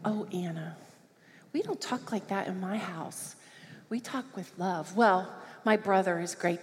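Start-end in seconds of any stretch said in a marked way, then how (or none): 0.0-5.0 gentle correction. Retold or imitated. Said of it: "I said".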